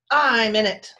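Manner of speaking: loud growled threat. A narrator's reading. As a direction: growl it out to scare robbers off. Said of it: "the bone growled".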